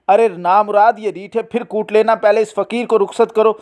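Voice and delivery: wife ordering the servant about; scolding. Acted.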